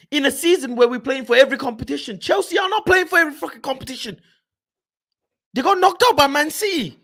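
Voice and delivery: rapid, heated shout; fast angry rant. Real, not acted. Fan ranting to his chat about rival spending, fast and heated. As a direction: fire it off in a fast burst of frustration.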